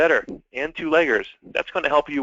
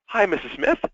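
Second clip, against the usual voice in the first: bright, higher-pitched phone hello, full of energy; very excited greeting; 7 semitones higher than usual. Shown as a demonstration. Salesman greeting a customer on the phone, excited and high. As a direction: greet the customer like you're thrilled to call. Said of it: "Very excited".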